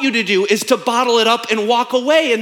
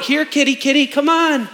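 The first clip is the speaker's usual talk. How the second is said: calling a cat; 5 semitones higher than usual. Pretend.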